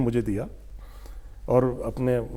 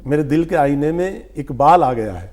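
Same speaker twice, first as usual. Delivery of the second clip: measured poetic recital, a touch raised; reciting a couplet. Shown as a demonstration. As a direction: deliver the sher to the listener like a small mushaira. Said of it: "اصل صورت میں آپ کو سنا رہا ہوں".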